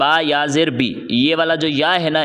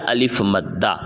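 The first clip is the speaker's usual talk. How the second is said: answered low; 8 semitones lower, slower than usual. Shown as a demonstration. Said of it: "کون سا قاعدہ ہو گیا".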